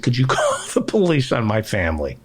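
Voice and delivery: laughing through the request; laughing punchline. Retold or imitated. Telling the podcast host his punchline, laughing. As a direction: crack up while delivering the punchline.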